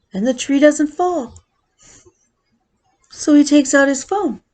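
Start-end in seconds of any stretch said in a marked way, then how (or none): none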